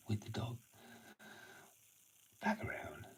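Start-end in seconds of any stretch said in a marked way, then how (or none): 2.4-3.1 dog command. Real, not acted.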